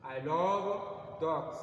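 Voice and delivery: "I love dogs" drawn out very slowly and loudly; slow demo. Shown as a demonstration. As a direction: spell the sentence out word by word for the class. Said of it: "si je dis par exemple". (lentement, mot à mot, « I love dogs »)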